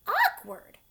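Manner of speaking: very high, loud shocked cry; aghast outcry; incredulous cry. A narrator's reading. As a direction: cry it in disbelief. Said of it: "cried Earthworm".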